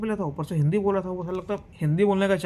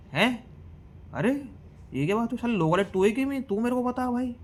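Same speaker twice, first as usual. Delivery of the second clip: outraged disbelief; 7 semitones higher than usual. Retold or imitated. Outraged at driver's question.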